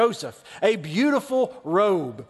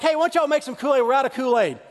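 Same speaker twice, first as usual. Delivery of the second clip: put-on high, eager kid voice; begging little brother; little kid asking; 4 semitones higher, faster than usual. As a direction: pester the older siblings like a five-year-old. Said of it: "I'd be like".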